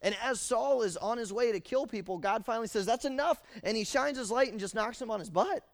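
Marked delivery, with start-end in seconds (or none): 2.9-3.4 loud, high, final "that's enough"; God putting his foot down. Acted. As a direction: slam the door shut on him. Preacher voicing God stopping Saul.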